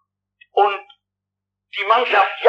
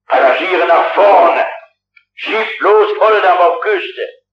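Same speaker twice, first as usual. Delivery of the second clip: louder, slow, clipped-out orders; firm commands; 5 dB louder, slower than usual. Retold or imitated. Traveller on the bridge ordering the ship, slow loud commands. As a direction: give each order like a captain. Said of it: "der sagte, was man tun sollte".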